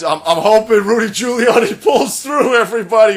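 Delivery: loud high sarcastic shout; loud mocking fake sympathy; sarcastic mock concern. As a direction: pretend to pray for him, laughing. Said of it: "Holy shit".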